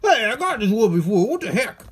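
loud, high mock-defiant complaint. Unboxer complaining he already has this toy, defiant. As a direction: protest like you've been cheated. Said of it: "I say it all defiantly".

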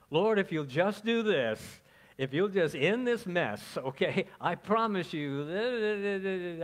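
loud, desperate pleading to God; pleading prayer. Retold or imitated. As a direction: beg like a man cornered, promising anything. Preacher acting a desperate bargaining prayer.

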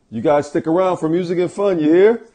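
high, loud, excited shout; loud hype call. Acted. Hyped sign-off inviting viewers.

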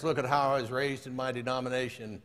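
understated boast in an even recital; lightly voiced boasting man. Man tells Jesus of his denomination, mildly boastful. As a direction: lightly play the self-satisfied churchgoer.

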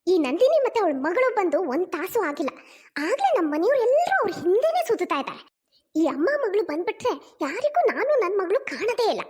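irritated grumbling to herself, swinging intonation; resentful. Acted. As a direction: grumble with jealous annoyance. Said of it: "ಚಿತ್ರ ಕೋಪ ಮಾಡ್ಕೊಂಡು".

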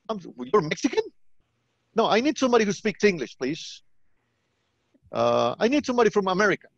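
a hint of an indignant American customer; demanding American caller. American caller wanting an English speaker, mock indignant. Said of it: "speaking to an American".

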